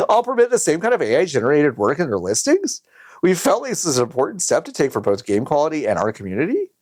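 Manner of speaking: clickbait video narrator; YouTuber voice. Acted. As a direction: read it like a hyped YouTuber. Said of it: "You're doing it in the YouTuber voice".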